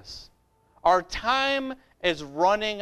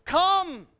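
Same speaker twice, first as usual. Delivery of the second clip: a high, ringing call; 7 semitones higher than usual. Real, not acted. Preacher summoning the congregation, a ringing high call. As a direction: cry it out to draw them in.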